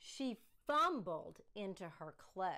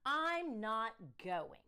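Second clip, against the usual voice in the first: put-on child refusing; 5 dB louder, slower than usual. Daughter refusing from bed.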